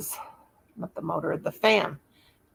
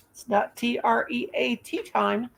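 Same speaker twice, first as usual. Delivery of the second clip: spelled out for dogs; 5 semitones higher than usual. Real, not acted. Spelling word in front of dogs.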